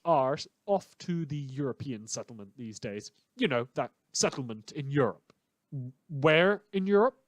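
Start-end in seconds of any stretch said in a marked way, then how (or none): 5.7-7.2 higher, louder mock-dumb question; mocking a listener. Host mocking a listener's clueless question, mock voice. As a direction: play the clueless listener asking. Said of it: "you ask that like".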